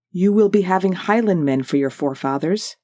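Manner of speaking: lightly voiced Highland Scots accent, rich and full; a gentle hint of a Highland lilt, proud and steady. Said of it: "rich, powerful voice, full of the delightful Highland accent".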